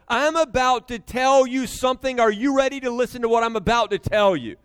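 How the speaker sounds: insistent parent setting up a serious announcement; acted parental emphasis; emphatic. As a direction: punch TELL to make the child listen. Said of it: "you're emphasizing. You don't just sit down and go".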